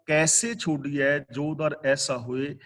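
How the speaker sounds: slow, drawn-out scripture recital; slow verse recitation. Shown as a demonstration. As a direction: intone the couplet slowly and reverently. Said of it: "Kabir ਜੀ ਕਹਿੰਦੇ ਨੇ".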